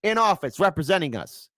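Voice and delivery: high, loud, slowly stretched rally cheer; cheering supporter. Retold or imitated. Imitating voters cheering their guy, high and loud. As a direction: hype it up like a fan at a rally.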